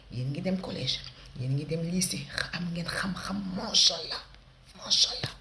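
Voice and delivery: lightly voiced African auntie showering praise; gushing auntie. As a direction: bless the kids like a proud aunt.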